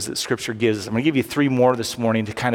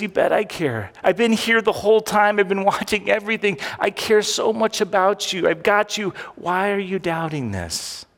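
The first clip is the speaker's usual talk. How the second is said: God reassuring; 5 semitones higher than usual. Acted. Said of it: "God says".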